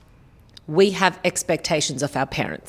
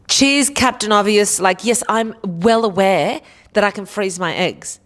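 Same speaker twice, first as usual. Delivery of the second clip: mock fed-up retort; 4 semitones higher, 4 dB louder than usual. Acts fed-up reply to advice.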